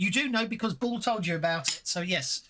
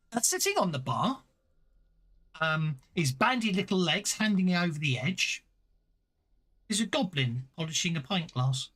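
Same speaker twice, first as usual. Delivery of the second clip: descriptive scene-setting read; game master narration; 2 semitones higher than usual. Acted. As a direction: paint the room for the players.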